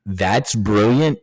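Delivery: slow, disbelieving question rising at the end; incredulous echo. Retold or imitated. Him echoing the bosses' praise, slow and disbelieving. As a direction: stretch it out in disbelief. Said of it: "I'm like".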